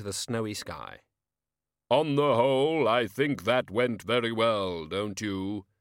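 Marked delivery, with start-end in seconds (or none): 1.9-5.7 Death voice. A narrator's reading. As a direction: speak as the grim reaper. Death speaking as Hogfather.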